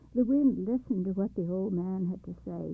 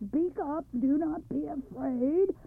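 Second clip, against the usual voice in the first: kindly as he could; 5 semitones higher, 3 dB louder than usual. Acted. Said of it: "as kindly as he could".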